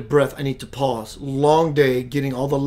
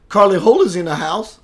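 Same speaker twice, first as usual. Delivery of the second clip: announcer call; 4 semitones higher, 7 dB louder than usual. Real, not acted. Greeting a viewer arriving.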